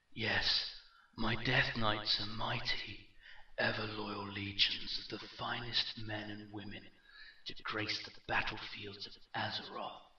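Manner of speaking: measured, echoing villain voice; proud warlord, understated; lightly voiced echoing dark lord. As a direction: boast of your army with restrained menace. Villain's speech in narrated story.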